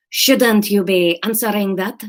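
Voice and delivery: put-on slow Spanish accent, toned down.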